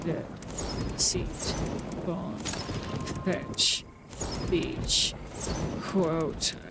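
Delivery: low, subdued word-list voice; softened recital, word by word; put-on reading voice. Real, not acted. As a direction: recite single words in an odd, sinking put-on voice. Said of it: "I don't know why I'm using this voice".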